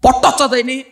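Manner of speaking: chant-like run of laments; driving preacher's litany. Real, not acted. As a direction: drive through the list without letting up, then challenge.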